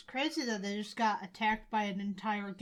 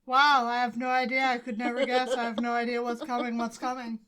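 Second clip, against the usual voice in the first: mock surprise; deadpan sarcasm; sarcastic; 5 dB louder than usual. Sarcastic feigned ignorance.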